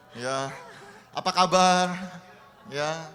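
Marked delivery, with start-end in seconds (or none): 1.2-2.0 loud, bright call of apa kabar; loud greeting. Shown as a demonstration. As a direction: call the greeting out across the room. Pastor demonstrates greeting to congregation.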